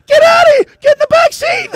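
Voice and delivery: high, loud playful command; mock shout. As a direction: holler him into the back seat. Retold ordering friend to back seat.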